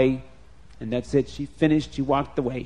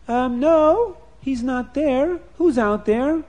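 high, friendly lady's voice; second wife voice; 10 semitones higher, 5 dB louder, slower than usual. Acted. New wife answering a stranger at the tent, high and friendly. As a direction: answer the caller kindly.

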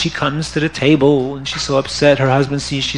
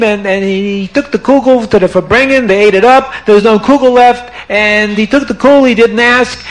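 higher, indignant grievance; aggrieved complaint; 4 semitones higher than usual. Acted. Rebbetzin presents her complaint before the Rebbe, mildly indignant. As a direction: lay out the grievance. Wife states complaint at court.

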